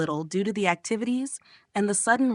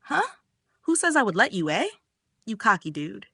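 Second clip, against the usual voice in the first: playful, put-on offence; playfully pissed. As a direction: challenge with mock annoyance. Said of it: "a playful and pissed look".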